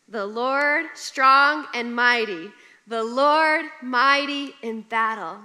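loud, slow, triumphant proclamation; proclaiming scripture. Acted. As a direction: declare it slowly to the congregation. Proclaiming psalm answer.

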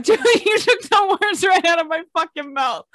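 loud laughing disbelief; excited shout. Real, not acted. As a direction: yell it out in delight. Excited exclamation.

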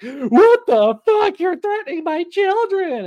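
high, loud, slow outraged mock shriek with a laugh. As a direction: shriek it like a scandalised mom. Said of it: "porn mommy's like".

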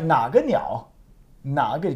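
"Naga" dipping and rising as a question. Shown as a demonstration. Teacher checks student hears the question, questioning "Naga niao". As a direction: ask it, lifting "Naga". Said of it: "can you hear it's a question?".

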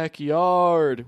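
lightly voiced ghost call; a hint of a ghostly call. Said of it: "in a ghostly voice say".

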